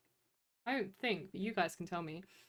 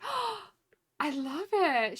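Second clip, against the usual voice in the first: higher, excited mock gasp of delight; imitating delighted barista; 8 semitones higher, much slower than usual. Barista gushing over the streamer's name, higher and delighted. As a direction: gush like a charmed barista. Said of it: "And she was like".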